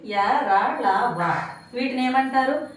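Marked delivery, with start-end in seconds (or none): 0.0-1.5 యా, రా, లా, వా drawn out one by one with the tongue; palate-made sounds. Shown as a demonstration. Teacher showing palate letters, separately stretched యా, రా, లా, వా. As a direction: sound out యా, రా, లా, వా separately, open and long. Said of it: "అంగిలి సహాయంతో పలికే అక్షరాలు".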